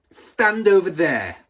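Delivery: loud, slow, high command; stern order. A narrator's reading. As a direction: point and command. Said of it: "the Trunchbull ordered".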